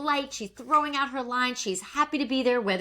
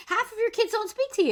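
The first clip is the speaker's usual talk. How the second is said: incredulous; 11 semitones higher than usual. Real, not acted. Incredulous retort at Tamara.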